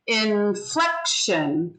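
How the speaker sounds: slow INFLECTION, accent on FLEC; stress on second syllable. Shown as a demonstration. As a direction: draw out INFLECTION, leaning on the middle syllable. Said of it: "there's an accent on one of the syllables".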